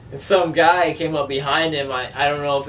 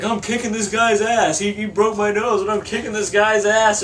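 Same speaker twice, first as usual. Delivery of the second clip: higher bragging voice; boastful stranger; 5 semitones higher than usual. Retold or imitated. Stranger phoning his girlfriend, bragging in a higher voice. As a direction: brag into the phone.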